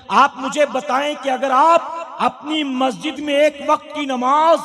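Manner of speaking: fervent preacher addressing the congregation; sermon preaching. Acted. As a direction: preach it, rising and pressing each point. (जोशीला धार्मिक प्रवचन)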